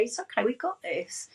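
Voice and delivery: arm-round-the-shoulder encouragement; reassuring little self. Acted. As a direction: comfort a small child. Put my arm around little me.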